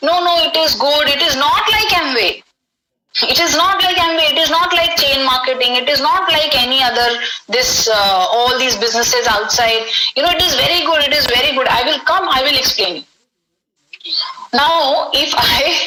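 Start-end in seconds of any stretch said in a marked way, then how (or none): none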